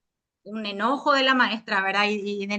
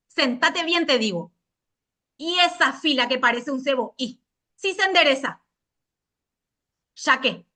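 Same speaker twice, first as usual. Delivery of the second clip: strict teacher. Pretend. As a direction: order pupils to sit up. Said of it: "léase con tono cortante y autoritario".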